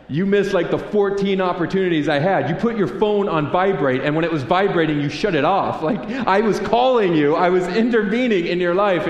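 God scolds the believer who ignored him, exasperated; God scolding. Retold or imitated. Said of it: "And God's like".

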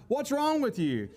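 acted impatience at someone crying; exasperated disbelief. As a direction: demand it like an appalled onlooker. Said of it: "they're just like".

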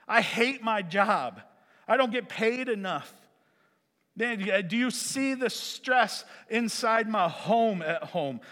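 high-pitched, exasperated venting to God; crying out, frustrated. Acted. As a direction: plead your grievances with mounting exasperation. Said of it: "crying out to God in frustration".

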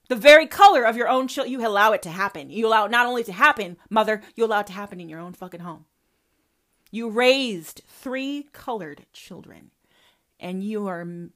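usual speaking voice

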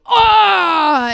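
loud, high yelp of pain; violent pain yell. Retold or imitated. Wife imitating husband bonked by the kids: loud pained yell. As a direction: cry out as if injured. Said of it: "really violent".

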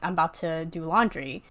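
offhand, understated quote of mom; matter-of-fact, as if nothing happened; casual. Retold or imitated. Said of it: "she just said it so casually".

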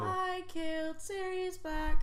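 high, slow taunting villain; Bellatrix voice. Retold or imitated. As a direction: taunt like a gleeful witch. Quoting Bellatrix.

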